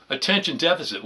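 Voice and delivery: Attention deficit spelled out slowly, word by word; slowed down. Shown as a demonstration. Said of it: "Let's slow down".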